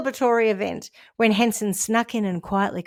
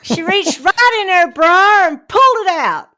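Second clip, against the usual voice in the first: laughing; 8 semitones higher, 8 dB louder than usual. Real, not acted. Laughing while telling the story.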